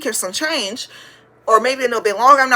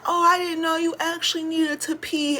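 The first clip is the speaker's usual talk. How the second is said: higher, softer put-on teacher voice; mock teacher; 6 semitones higher, 6 dB quieter than usual. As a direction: play the backpedalling teacher, high and small. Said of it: "And then she was like".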